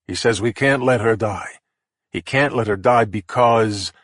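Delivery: slow, deliberate words; slowed pondering, eyes closed; slow, thinking aloud. Real, not acted. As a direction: puzzle it out slowly. Thinking it through slowly.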